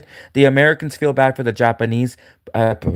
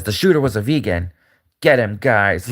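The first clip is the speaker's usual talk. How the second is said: lightly lower, a hint of a scheming villain; mock villain Megyn Kelly; 3 semitones lower than usual. Megyn Kelly as Batman villain ordering her goons, lightly menacing. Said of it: "she's like a villain".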